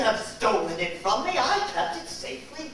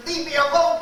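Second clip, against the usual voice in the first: angry plea; 4 semitones higher, 6 dB louder than usual. Acted. Pushing someone away angrily.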